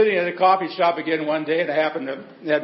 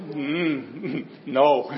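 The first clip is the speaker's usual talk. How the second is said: laughing no. Retold or imitated. Girl's answer retold with laughter.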